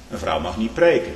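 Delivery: mock objection; objector's claim. Shown as a demonstration. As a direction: voice the objection before answering it. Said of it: "U zegt, nee".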